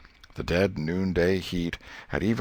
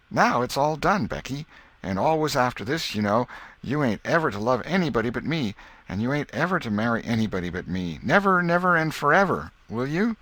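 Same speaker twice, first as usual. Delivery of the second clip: put-on higher, earnest boyish voice pressing a promise; a boy sealing his engagement, insistent; eager boy Tom; 6 semitones higher than usual. A narrator's reading. Tom pressing Becky to promise forever, eager.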